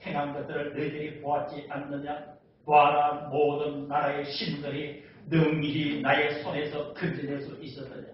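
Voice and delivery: slow, level declamation; measured monotone proclamation, punching key words; Sennacherib's boast. Acted. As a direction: pronounce it as a boasting conqueror. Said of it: "아수르 왕 산헤립이 이야기해요".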